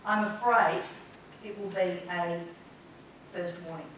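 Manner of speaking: name the anger without acting it out; controlled, unemotional. Shown as a demonstration. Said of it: "talking about the emotion, but I'm not actually in the emotion".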